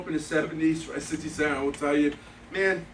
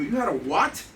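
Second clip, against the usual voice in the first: retold disbelief, hitting "what" louder; incredulous; 4 dB louder than usual. Diner hearing the owner fired the chef, incredulous. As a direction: react as if you can't believe it.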